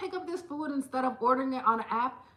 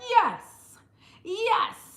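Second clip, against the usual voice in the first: higher, louder happy gush; delighted; 5 semitones higher, 4 dB louder, slower than usual. Retold or imitated. Answering the hygienist who praises her teeth, delighted. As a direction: soak up the compliment with glee. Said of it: "I'd be like".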